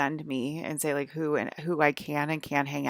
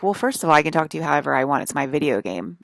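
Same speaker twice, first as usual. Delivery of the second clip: loud angry comeback, fast; angry retort; 5 dB louder than usual. Retold or imitated. To the guy denying her a vape, a loud angry comeback. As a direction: snap back at him, loud and quick. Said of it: "I didn't say it in this very calm voice".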